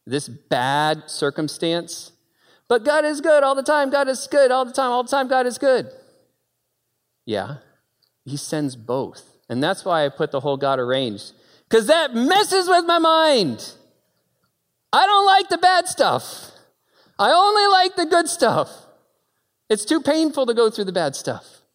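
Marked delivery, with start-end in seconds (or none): 2.7-5.9 high, loud proclamation; preaching shout. Acted. Preacher to congregation, loud ringing proclamation. 11.7-21.2 preaching at full force. Real, not acted. Preacher to congregation about pain, full-force preaching.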